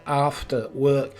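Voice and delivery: slow "after" with a long careful vowel; mock-proper pronunciation. Correcting his imitation of the actor, stretched-out "after". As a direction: draw out "after work" like a theatre actor. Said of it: "well, not after".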